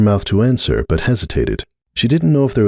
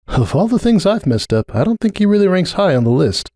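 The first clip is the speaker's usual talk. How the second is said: high, rueful mare's voice; Cupcake, rueful; 11 semitones higher than usual. Acted. Cupcake dismissing Sunburst to Starlight, high rueful voice. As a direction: shrug it off with a sad edge.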